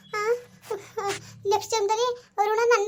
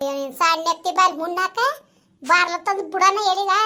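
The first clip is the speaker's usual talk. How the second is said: slow, heavy threat; slow menace; 3 dB louder, slower than usual. Acted. Spirit threatening the family, slow and heavy. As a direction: drag out each word as a threat. Possessed woman threatens slowly.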